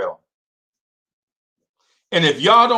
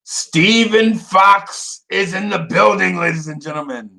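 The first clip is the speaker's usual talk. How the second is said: announcer intro; 4 semitones higher than usual. Real, not acted. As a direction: introduce him like a ring announcer. Announcing viewer arrival.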